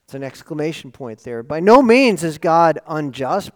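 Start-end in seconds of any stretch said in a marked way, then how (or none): 1.4-3.5 louder, pressing on "no"; forceful denial. Acted. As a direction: declare it like Paul's exclamation. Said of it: "Paul's saying it in a very forceful way".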